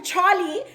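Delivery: "Charlie" stretched long and lifted at the end; "Charlie" pulled long with a rising tail; drawn-out name. Shown as a demonstration. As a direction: stretch "Charlie" out as if he's that tall. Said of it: "I say Charlie like this 'cause he was that tall".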